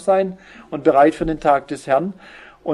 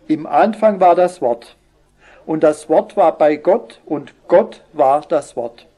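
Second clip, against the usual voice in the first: solemn Bible reading. Acted. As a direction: read the verse with weight, slowly. Reads Luther's John 1 aloud. (feierliche, langsame Bibellesung)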